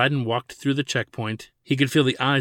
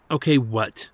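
cold and short; 4 dB louder than usual. Acted. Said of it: "she said with cold shortness".

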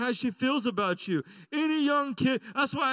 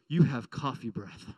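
put-on lower, slow, deadpan kid's verdict; a child flatly stating it, lower and slower; blunt five-year-old daughter; 11 semitones lower than usual. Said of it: "and she goes".

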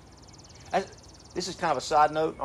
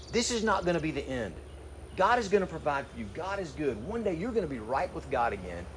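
soft, gentle self-encouragement; speaking to his own soul; 4 dB quieter than usual. Retold or imitated. Psalmist softly reassures his own downcast soul. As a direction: coax your own soul out of its gloom. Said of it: "That's what that psalmist was doing".

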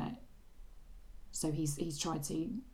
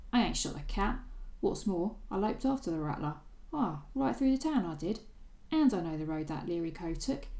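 put-on Cockney accent; 3 semitones higher than usual. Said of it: "Are you gonna do your Cockney accent?".

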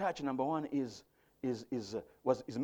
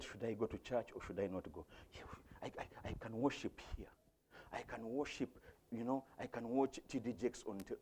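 reluctant churchgoer; 2 semitones lower, 12 dB quieter than usual. Acted. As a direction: murmur it like someone talking themselves out of church. Voices a reluctant churchgoer's excuses.

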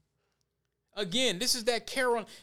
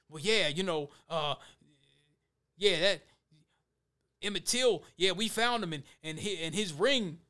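mock sheriff. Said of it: "they was talking like that".

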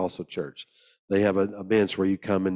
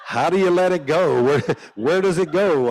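put-on baffled young boy; 7 semitones higher, 6 dB louder than usual. Confused boy at the altar.

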